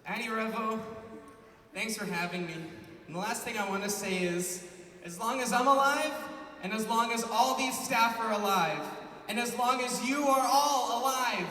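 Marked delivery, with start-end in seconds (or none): 5.0-11.5 building to a much louder, much higher slow shout; rally the crowd to a big finish; rallying cry. Real, not acted.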